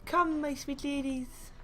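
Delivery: drawn-out, lilting game-character line; Death Prophet. Acted. Caster doing an impression for the stream, Death Prophet voice. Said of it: "my impression of Death Prophet".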